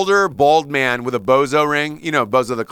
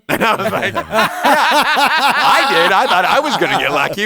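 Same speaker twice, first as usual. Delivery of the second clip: laughing; 6 semitones higher, 5 dB louder, slower than usual. Real, not acted. Laughing while retelling plane story.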